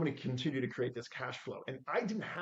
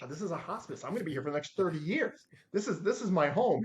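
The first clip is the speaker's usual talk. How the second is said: earnest protest; 5 semitones higher, 4 dB louder than usual. Retold or imitated. Protesting to the boss in retelling.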